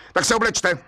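irritated judge snapping; snapped. A narrator's reading. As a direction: snap at the bricklayer. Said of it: "utrhl se soudce".

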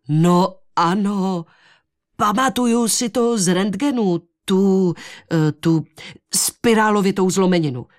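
mild exclamation. Acted. Henry finally remembers the fracture, mildly exclaiming. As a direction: exclaim it as memory returns. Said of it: "vykřikl".

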